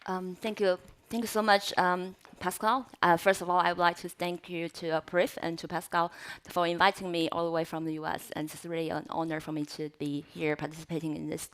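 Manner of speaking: talking around a cough drop; candy in the mouth while speaking; mouth full. Real, not acted. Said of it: "I have the kind of cough relief candy in my mouth".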